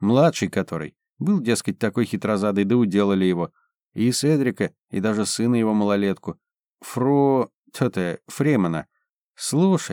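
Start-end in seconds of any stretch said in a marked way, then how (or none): none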